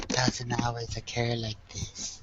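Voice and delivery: low-volume, slow murmur into an ear; whisper. Pretend. Player whispers in Vaughn's ear, a slow, hushed whisper. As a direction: say it softly and slowly, secretively. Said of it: "I'm gonna whisper in Vaughn's ear".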